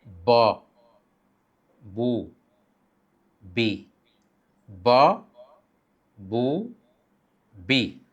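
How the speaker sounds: ब, बू, बी clipped short; short vowel drill. Shown as a demonstration. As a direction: snap each syllable. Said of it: "short वावेल में क्या लिखते हैं". (छोटी हरकत)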